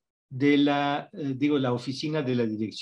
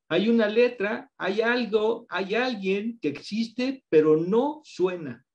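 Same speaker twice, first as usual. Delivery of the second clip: playful suspense; 6 semitones higher, slower than usual. Acted. Teacher builds mystery for audience.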